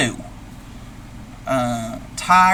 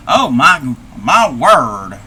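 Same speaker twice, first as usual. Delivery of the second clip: startled granny; 3 semitones lower, 5 dB louder, slower than usual. Acted. Granny startled by something on screen.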